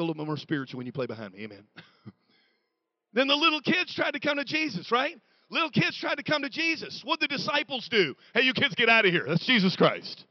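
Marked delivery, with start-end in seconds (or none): 3.1-8.1 animated preaching. Real, not acted. Preaches in raised voice. 8.3-10.3 loud, mock-officious telling-off; shooing kids off. Disciples shooing children away from Jesus.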